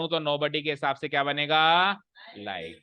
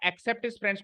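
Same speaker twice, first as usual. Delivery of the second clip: Except his friends pitched up as its own unit; read as separate phrase; 6 semitones higher, much slower than usual. Shown as a demonstration. Teacher showing the comma phrase, Except his friends read separately. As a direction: lift Except his friends, set it apart. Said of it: "को अलग पढ़ूंगा".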